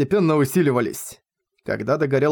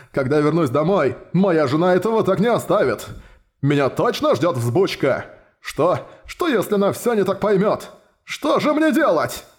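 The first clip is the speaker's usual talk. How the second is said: comic panic; 4 semitones higher than usual. Acted. Minotaur fears his wife.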